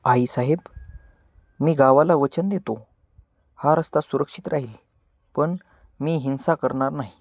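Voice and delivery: a boy's resolute promise, lightly voiced; steady and sure, pledging his word; firm vow. Young Shivaba pledging to his mother, lightly voiced firm vow. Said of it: "तो ठामपणे म्हणतो".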